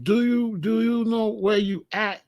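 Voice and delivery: lightly voiced warning to the newcomer; pointed question. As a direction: ask it slow like a warning. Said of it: "I gotta ask him".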